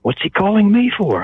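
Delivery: flustered disbelief, pitch climbing at the end; baffled surprise. Retold or imitated. Fan stunned by a director's phone call, baffled.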